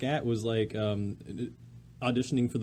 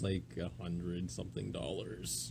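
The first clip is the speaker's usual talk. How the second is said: whisper; 6 semitones lower, 12 dB quieter, slower than usual. Real, not acted. Whispered ticket price aside.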